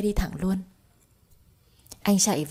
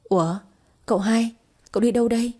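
higher, quick and a little louder with joy; delighted to run into her old master's son; glad surprise; 4 semitones higher, 3 dB louder, faster than usual. A narrator's reading. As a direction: greet him happily, surprised to see him. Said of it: "vui mừng bắt chuyện".

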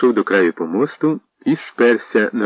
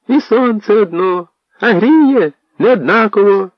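posadnyk's speech; 11 semitones higher, 4 dB louder than usual. Acted. Posadnyk addresses the townsfolk, cautiously working round to his request. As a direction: ease into the point from afar, solemnly.

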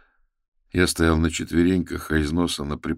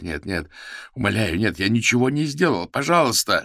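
rising to higher, louder sobbing plea; tearful begging; 6 semitones higher, 3 dB louder than usual. A narrator's reading. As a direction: beg through tears. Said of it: "бормотал сквозь слёзы".

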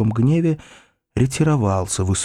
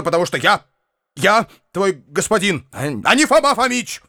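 angry commands; 9 semitones higher than usual. A narrator's reading. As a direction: assert your mastery in fury. Uncle raging at servant. (яростный высокий крик господина)

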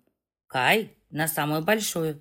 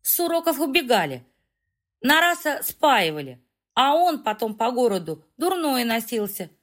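tipsy chatter; 4 semitones higher than usual. Acted. Tipsy girl boasting on.

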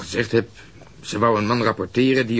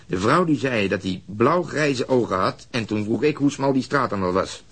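usual speaking voice

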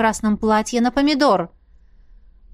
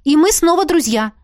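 demanding; 5 semitones higher, 3 dB louder than usual. A narrator's reading. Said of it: "потребовала я".

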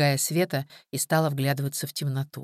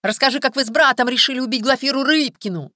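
high, loud mimicking whine; mocking thin voice; 9 semitones higher, 7 dB louder than usual. Kolka mocks the police interrogators to Viktor, thin mocking voice. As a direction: parody the interrogator in a thin nasty voice. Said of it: "передразнил он тонким голосом".

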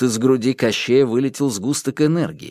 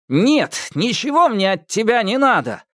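exclaiming; 11 semitones higher than usual. A narrator's reading. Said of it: "воскликнул Иван".

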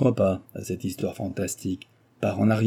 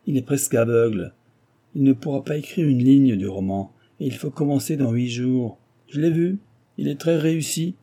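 editor storming in with bad news, pitched up and excited; a flustered newspaper boss, voice raised high; agitated editor; 4 semitones higher than usual. Rédacteur en chef affolé annonce la catastrophe, voix haute et pressée.

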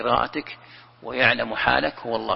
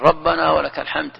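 imitating a worshipper calling it out, louder; mock loud prayer; 3 semitones higher, 6 dB louder than usual. Preacher mimicking a worshipper raising his voice in prayer, louder. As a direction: call it out like someone disturbing the row. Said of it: "ليش ترفع صوتك؟".

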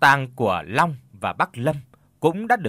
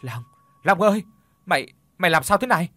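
higher, louder acted cry to a friend; choked up; 5 semitones higher, 4 dB louder, faster than usual. A narrator's reading. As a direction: call out in mildly choked-up distress. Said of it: "nói trong cái sự nghẹn ngào". (gọi bạn, hơi nghẹn ngào)

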